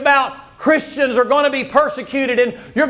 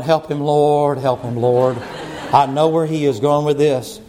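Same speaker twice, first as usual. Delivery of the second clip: low pleading through laughter; laughing plea; 10 semitones lower than usual. Retold or imitated. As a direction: beg the Lord half laughing. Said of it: "Miss Denise is going".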